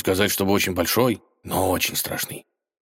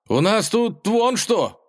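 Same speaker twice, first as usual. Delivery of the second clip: slow, much higher, alarmed; 13 semitones higher, slower than usual. Acted. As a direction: drag it out in alarm. Ivan shows the catastrophe.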